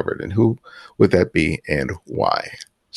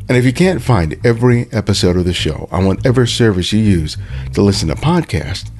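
announcer read. Acted. Podcast outro read over music.

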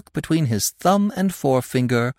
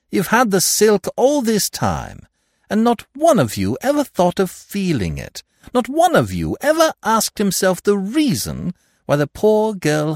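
scornful scolding; 6 semitones higher than usual. Acted. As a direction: scold the dunderheads. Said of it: "continued Lupin".

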